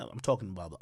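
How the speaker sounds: hushed fast whisper; whispered aside. Real, not acted. Comic tells the crowd, hushed conspiratorial whisper. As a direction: lean in and whisper the setup.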